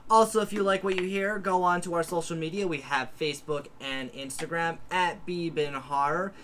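projected sign-off, each phrase starting high and dropping; podcast announcer. Acted. Host asking listeners for ratings and mail, announcer style. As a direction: rattle through the plugs like a show host. Outro plugs.

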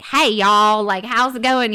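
lightly mocked Texas drawl; friendly cartoon Texan twang; stereotype Texan accent. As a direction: play a folksy Texan greeting. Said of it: "people think Texans are just like".

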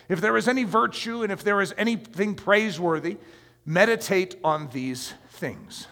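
measured recitation of verse; scripture reading. Acted. Preacher reading Philippians to the congregation, measured recitation. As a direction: read it as holy text.

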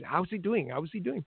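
imitating a Swedish mother in a half-hearted Swedish accent. Retelling the player's relative's messages in a bad Swedish accent. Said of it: "Sorry, I'm doing that accent".

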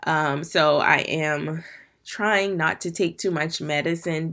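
congested, blocked-nose voice; stuffy nose. Real, not acted. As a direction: talk through a stuffy nose. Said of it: "if I sound a little stuffy".

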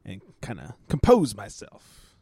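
a hushed hint of Southern Baptist primness; Southern Baptist lady. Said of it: "she turned into a Southern Baptist".

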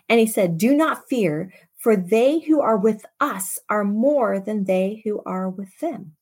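measured, dramatic Bible reading; scripture reading. Acted. Preacher reading Second Kings to the congregation, dramatic. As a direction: read the passage to the church with weight.

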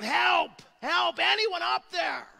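crying out for help. Retold or imitated. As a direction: call up the cliff for help. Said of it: "He's just crying out".

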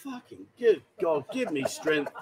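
slow exasperated sigh of words; begging for patience, slowly; praying for patience through teeth. Real, not acted. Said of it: "exasperated at the wrong guess".

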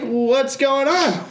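high, slow, mock innocent question; sweetly naive, stretched out. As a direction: play dumb with the cop, drawn out. Feigned innocence to the cop.

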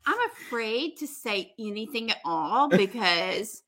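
slow, careful mock hesitation; flustered. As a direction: pick each word gingerly, imitating him. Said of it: "so flustered".

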